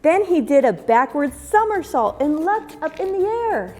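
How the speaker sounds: gentle, lilting storybook narration; reading to children. A narrator's reading. Teacher reading a picture book to kids, gentle storybook lilt. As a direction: read it like story time for little ones.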